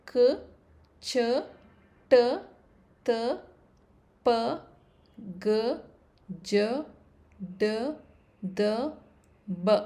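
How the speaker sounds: unaspirated ಕ, ಚ, ಟ, each with barely a puff; letters ಕ to ಬ spaced apart, short and without aspiration; little breath. Shown as a demonstration. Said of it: "require less breath to pronounce".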